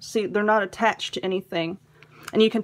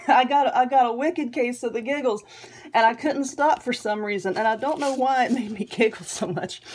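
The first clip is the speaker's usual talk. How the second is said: giggling. Real, not acted. Giggling over funny card.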